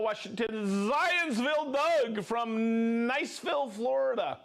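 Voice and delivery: lightly hammed-up announcer reading out names; a touch of showman, names stretched a little; special roll call voice. Host doing a mock roll call for Christine, lightly hammed-up. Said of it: "I'm gonna go".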